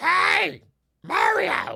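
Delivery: very high, strained, rough, creaky croaking voice. Showing a clip of their own voice acting: Toad voice. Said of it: "me doing the Toad voice".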